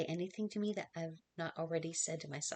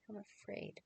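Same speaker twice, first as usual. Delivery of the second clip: much softer, a fearful whisper; frightened whisper; 13 dB quieter than usual. Acted. Mary whispers her fear to Joseph. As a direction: barely get the words out, scared.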